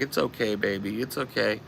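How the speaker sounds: softly voiced comforting; soothing girlfriend. Chelsea petting her drunk friend's head, softly soothing imitation. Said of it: "petting his head".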